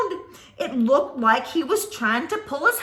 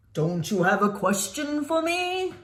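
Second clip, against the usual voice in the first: monster voice. Acted. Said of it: "The creature said".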